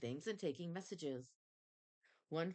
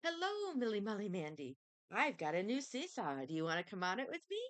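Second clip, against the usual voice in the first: 1 little friend; 4 semitones higher than usual. Acted. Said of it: "her little friend said".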